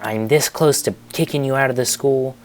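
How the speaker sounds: mock a principal's threat, voice pushed up; threatening principal. Principal threatens to expel two boys, mock scolding. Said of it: "pinches her fingers super close together".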